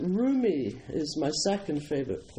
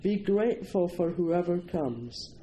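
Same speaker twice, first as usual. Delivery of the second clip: poem reading; 2 semitones higher than usual. Acted. Speaker reading Rumi to the audience, measured poem recital. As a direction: give each image its own space, deliberately.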